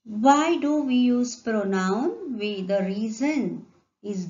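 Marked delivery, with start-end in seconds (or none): 0.1-2.1 loud slow question, "why" raised; emphatic question. Shown as a demonstration. Teacher asking the class a key question, loud and slow. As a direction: pose the question to the class with weight.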